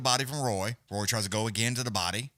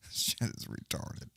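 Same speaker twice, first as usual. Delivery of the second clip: laughing; 7 dB quieter, slower than usual. Real, not acted. Laughing after whisper bit.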